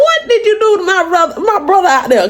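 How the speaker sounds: high, laughing accusation; teasing cousin. Retold or imitated. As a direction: tease her while cracking up. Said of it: "He's like".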